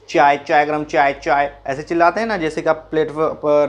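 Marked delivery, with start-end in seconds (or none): 0.1-1.6 chai vendor call. Retold or imitated. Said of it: "ऐसे चिल्लाता है".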